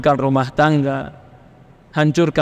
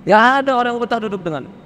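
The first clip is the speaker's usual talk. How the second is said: rapid, pressing repeat of "Tidak ada orang yang betah duduk denganmu"; fast emphatic repeat; 6 semitones higher, much faster than usual. Shown as a demonstration. Preacher hammering the point to the stubborn listener, fast. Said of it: "repeated phrase".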